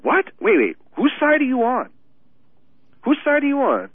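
high-pitched mock disbelief; incredulous outburst at moderate volume; acted flipping out. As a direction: demand it like you have suddenly flipped. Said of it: "the schizo trigger just flips".

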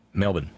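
Melbourne said quickly, barely opening up; said fast. Shown as a demonstration. Host thanking a listener in Australia, Melbourne said fast. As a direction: say "Melbourne" fast, as one short word. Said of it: "gotta say it fast".

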